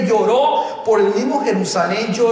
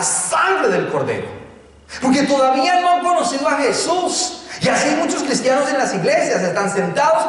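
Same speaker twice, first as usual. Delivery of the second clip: higher, insistent preacher's voice; impassioned preaching; 5 semitones higher than usual. Real, not acted. Preacher rebukes hard-hearted believers, impassioned preaching. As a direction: drive each point home to the congregation.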